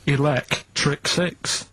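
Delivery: The band name stretched slowly, the first word rising; drawn-out answer. Shown as a demonstration. Answering Steve's doubt, slowly drawn out. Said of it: "don't say it like that".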